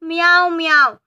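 playful meow imitation; cat meow. Shown as a demonstration. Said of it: "बिल्ली कैसे बोलती है?".

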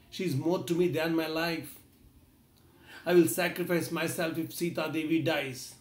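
grieving brother, understated sobbing; mild pleading grief; mild crying. Acted. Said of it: "Rama started crying uncontrollably".

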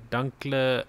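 "Dunkleosteus" broken up, sounded out in parts; careful pronunciation. Shown as a demonstration. Gamer showing how he would pronounce it, "Dunkleosteus" sounded out. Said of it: "That's how I would pronounce it".

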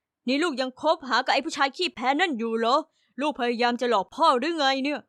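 a hint of an angry father's voice; scolding father. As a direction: press her like a suspicious dad.

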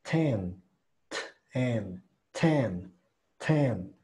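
"Ten" with a crisp T, not an R; clear T. Shown as a demonstration. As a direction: sound a true T at the start of "Ten". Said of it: "me gusta más usarla como T". ("Ten" con T clara, no como R)

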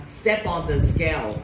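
"Step on the scale" slowly, with "Step on" joined as "ste-pon"; linked words. Shown as a demonstration. Teacher showing linking to the class, "Step on" run together in a slow phrase. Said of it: "thầy đọc nối các bạn ha".

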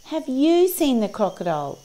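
high animal voice, leaning on "you"; inquiring little creatures. A narrator's reading. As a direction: ask high as the parrot and friends. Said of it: "asked the parrot and the dragonfly".

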